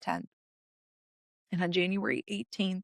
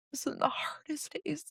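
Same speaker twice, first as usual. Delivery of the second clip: whisper; 6 semitones higher, 7 dB quieter than usual. Real, not acted. Recalling the worst day after cancer diagnosis.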